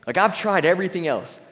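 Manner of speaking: psyched up, finally going for it; the woman deciding to push through the crowd; determined resolve. Retold or imitated. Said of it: "she decided".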